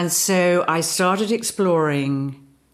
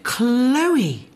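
higher, sustained, falling; sounding the name; 7 semitones higher than usual. Shown as a demonstration. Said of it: "I responded".

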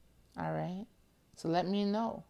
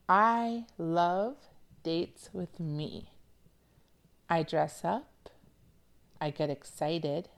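quote reading; slower than usual. Shown as a demonstration. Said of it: "let's start with the quote".

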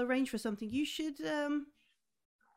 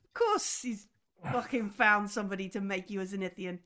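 scornful; 3 semitones lower than usual. Acted. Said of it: "she says it almost like".

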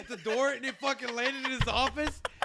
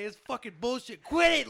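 retold angry outburst, jumping louder and higher on the last order; imitating pissed-off boss; 4 semitones higher, 3 dB louder than usual. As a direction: mimic a fed-up boss, building to a loud command. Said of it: "Was so pissed".

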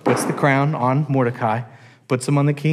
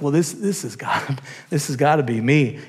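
proud Haman. Acted. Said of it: "in all of his pride".

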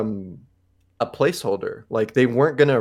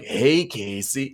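frat bro; much slower than usual. Retold or imitated. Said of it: "It just sounded like some frat boy".

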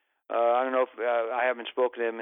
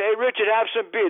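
rowdy fan; 7 semitones higher than usual. Retold or imitated. Drunk fans passing beer.

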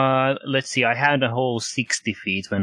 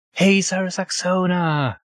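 holding back a shout; 8 semitones higher than usual. Acted. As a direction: call out but keep it hushed. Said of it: "I'm trying not to yell too loudly".

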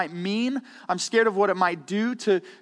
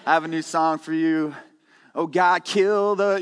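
Nick Serene launching a song; 3 semitones lower than usual. Retold or imitated. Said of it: "my Nick Serene impersonation".

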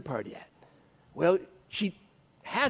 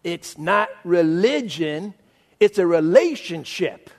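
smug slogan; slower than usual. Retold or imitated. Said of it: "What do you think I said?".

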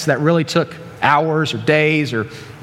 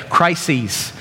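"Crises" said on its own with a relishing fall, KRY-seez; enjoy how "Crises" sounds as you say it; "Crises" lingered over with a falling tune, for the fun of saying it; savoring the word. Shown as a demonstration. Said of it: "plural words that just sounds cool to say".

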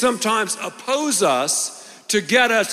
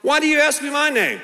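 the man replying; 8 semitones higher, faster than usual. Acted. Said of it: "he replied".

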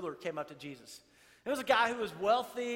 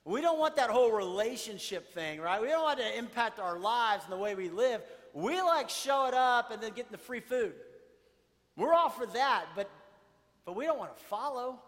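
dismissive refusal; 6 dB louder than usual. Retold or imitated. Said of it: "many of his disciples said".

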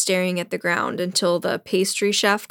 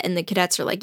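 usual speaking voice

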